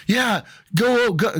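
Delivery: high, hammed-up angry jeer; mock belligerent outburst; retold angry cursing. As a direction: imitate an aggressive guy going off. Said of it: "he starts cursing at me".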